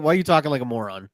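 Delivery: mock exasperation as a fed-up actor; grumpy, impatient scolding, lightly acted; annoyed. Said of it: "Grandpa's just annoyed".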